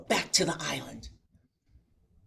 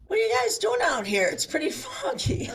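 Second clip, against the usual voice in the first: louder, higher, laughing through it, squeaking up on foggy; laughing mock fisherman; 10 semitones higher, 6 dB louder than usual. The fisherman to the lost kayakers, laughing and louder. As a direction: chuckle out the fisherman's deadpan question. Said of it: "he goes to us".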